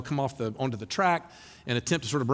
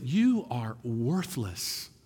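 shame voice; 3 semitones lower, much slower than usual. Retold or imitated. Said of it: "we call it the shame voice".

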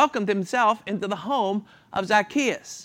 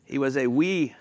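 put-on Scottish accent; 4 semitones lower than usual. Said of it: "say it in Scottish".

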